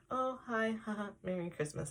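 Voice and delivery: high, quick fake-bright greeting with a nervous laugh; chirpy put-on hello hiding tears; forced cheerfulness. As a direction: brush him off with fake cheer. Faking cheer to the priest.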